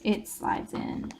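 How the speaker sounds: slow whisper as the card goes in; whispered demo. Shown as a demonstration. Showing viewers the tag sliding into the pocket, slow whisper. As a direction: breathe it softly, slowly, while sliding it. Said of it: "And again, I'll show you".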